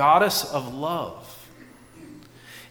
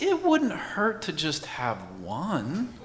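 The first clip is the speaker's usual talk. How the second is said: tempting inner voice; 7 dB quieter, slower than usual. Acted. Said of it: "The voice says something like this".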